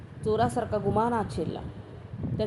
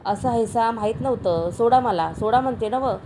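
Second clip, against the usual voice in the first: sobbing; 3 semitones higher, 5 dB louder than usual. Acted. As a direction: beg him to let go, a touch of tears. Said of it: "हुंदके देत बोलली".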